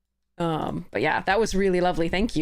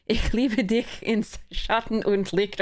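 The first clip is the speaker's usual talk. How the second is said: careful non-native German reading; hesitant German; 4 semitones higher, slower than usual. Shown as a demonstration. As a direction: sound out the German line carefully. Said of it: "I can't even read German".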